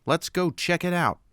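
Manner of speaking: lightly voiced brash smuggler urging his friend; Han Solo voice. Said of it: "Han told his Wookiee co-pilot".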